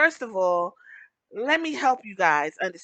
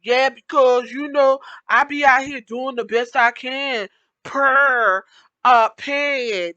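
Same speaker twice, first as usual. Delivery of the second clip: loud, mocking imitation of a slang-heavy white girl; mocking TikTok white girl; 3 semitones higher, 8 dB louder than usual. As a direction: parody her put-on accent, loud and showy. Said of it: "white girls are like".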